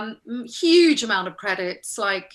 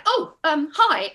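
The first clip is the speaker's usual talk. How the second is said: loud, awkward mock surprise; startled greeting; 5 semitones higher, 4 dB louder, slower than usual. Half-dressed actor greeting a man who walked in, startled. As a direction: act caught off guard and embarrassed.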